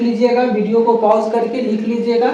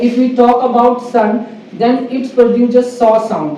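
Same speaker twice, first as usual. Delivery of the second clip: very slow, deliberate teaching voice; slow classroom English; much slower than usual. Acted. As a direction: spell it out for beginners. (धीमी, सधी हुई शिक्षक वाली अंग्रेज़ी)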